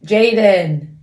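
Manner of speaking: loud, high, drawn-out reprimand; exasperated call. Real, not acted. Mother sending dawdling son upstairs, loud and exasperated.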